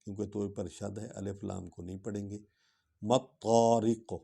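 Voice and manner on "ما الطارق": ما الطارق drawn out slowly with a doubled ṭa; Quranic recitation demo. Shown as a demonstration. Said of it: "ان نجم اس لیے پڑھ رہے ہیں".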